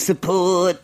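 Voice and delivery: high-pitched old lady impression; put-on elderly outer-borough voice; eighty-year-old outer-borough lady. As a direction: say "Support" high, with the R dropped. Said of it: "you don't talk like that".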